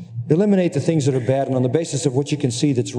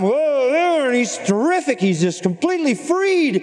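excited whoa; 11 semitones higher, slower than usual. Retold or imitated. David's joyful release in the psalm.

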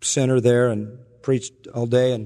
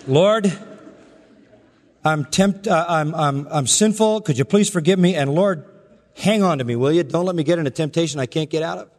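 a lightly raised, simple asking voice; childlike petition; 4 semitones higher than usual. Pretend. Preacher acting a simple prayer for bread, lightly childlike. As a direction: ask God plainly like a child asking for bread. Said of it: "you can say".

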